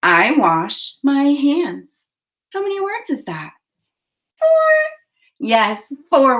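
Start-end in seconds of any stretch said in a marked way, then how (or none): 0.0-1.9 slow count-along "I wash my hands"; measured, separated words for "I wash my hands". Shown as a demonstration. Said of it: "a finger in the air for each word". 4.4-4.9 very high little puppet voice; squeaky high helper voice; Rose. Acted. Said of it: "Rose is gonna come back".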